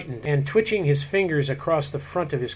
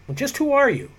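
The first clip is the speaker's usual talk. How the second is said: high, indignant demand; indignant matron; 10 semitones higher than usual. A narrator's reading. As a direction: press him like an offended society lady.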